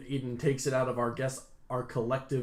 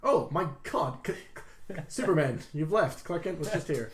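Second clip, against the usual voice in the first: surprised; 4 semitones higher than usual. Acted. Character reacts to mustache reveal.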